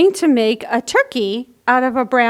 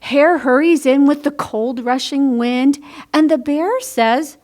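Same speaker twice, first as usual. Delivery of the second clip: put-on lively picture-book read-aloud for children; bright storybook narration; story reading. A narrator's reading. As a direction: read it like storytime for little ones.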